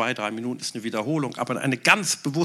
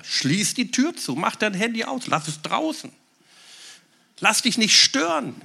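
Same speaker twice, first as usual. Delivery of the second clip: exhortation; 9 semitones higher, 4 dB louder than usual. Acted. Preaching exhortation.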